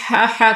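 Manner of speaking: ہا ہا breathed from mid-throat like cold air. Shown as a demonstration. Teacher imitates shivering winter breath, mid-throat ہا ہا. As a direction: puff ہا ہا as if freezing. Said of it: "ٹھنڈی ہوا کی مانند".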